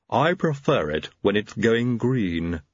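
slow, lofty lisping servant; haughty. Acted. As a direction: look down your nose at him. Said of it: "he said haughtily".

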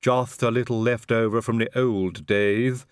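slow, cheerful lisping servant; cheerful Igor. A narrator's reading. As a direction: breezily reassure them. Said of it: "said Igor cheerfully".

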